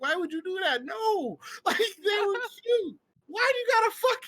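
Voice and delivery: high-pitched mock-distraught protest; Caleb City. Comedian reacting to the friend's cruelty, high distraught protest. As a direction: wail it in exaggerated, imitated disbelief. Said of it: "I feel like Caleb City's like".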